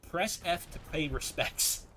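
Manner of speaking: slow, lightly put-on prompt reading; quoted game prompt. Streamer quoting a Call of Duty funeral prompt, mock solemn. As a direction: read it out slowly as an on-screen prompt.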